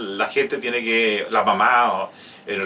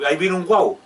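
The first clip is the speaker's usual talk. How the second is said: put-on grandparent baby talk; 5 semitones higher than usual.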